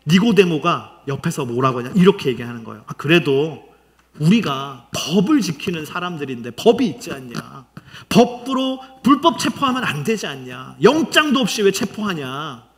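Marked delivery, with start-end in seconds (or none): 2.9-12.6 mildly acted objection; arguing. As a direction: argue the point on someone's behalf. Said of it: "따지는 거예요". (가볍게 따지는 말투)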